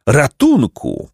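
high, drawn-out call for help; strained cry. A narrator's reading. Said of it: "krzyknęli z wysiłkiem".

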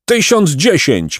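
high, drawn-out cry; count's insistent high call; shouted command. A narrator's reading. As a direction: proclaim the sentence in a high, slow shout. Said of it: "krzyknął hrabia".

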